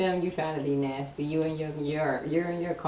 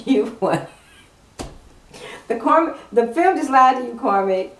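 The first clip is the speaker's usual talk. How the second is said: teasing callout; 4 semitones higher, 8 dB louder than usual. Real, not acted. Keeps teasing card.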